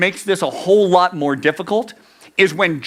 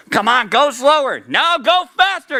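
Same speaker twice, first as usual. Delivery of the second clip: high-pitched mock heckling; judges shouting; 7 semitones higher than usual. Two judges nagging the one reciting, mock shouting. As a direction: pester them in a raised pitch, without real volume. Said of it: "judges one and three shouting at us".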